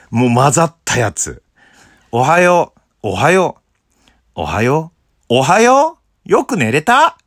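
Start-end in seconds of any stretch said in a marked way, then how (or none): 2.1-7.2 climbing higher and louder until it turns cartoonish; a bashful good morning that slides into an Anpanman-like voice; shy, clumsy greeting. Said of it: "照れと下手がね、もう混ざったやつ。". (照れながらだんだん高くなるアンパンマン風の声)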